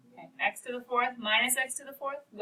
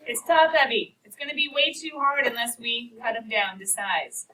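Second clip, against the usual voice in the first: mock alarmed inner voice; 5 dB louder than usual.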